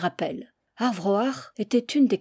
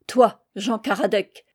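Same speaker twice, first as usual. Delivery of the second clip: s'écrier; 4 dB louder than usual. Acted. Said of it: "s'écria mon père".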